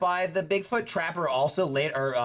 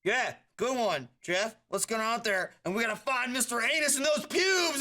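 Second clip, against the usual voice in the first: mock hunter cheer; 5 semitones higher than usual. Mimicking hunters cheering Jeff.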